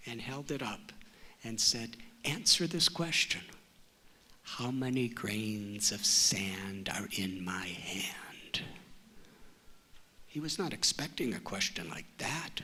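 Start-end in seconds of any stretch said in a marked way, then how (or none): 2.2-8.6 put-on challenging little boy. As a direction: lay down the challenge slowly. Boy poses his riddle.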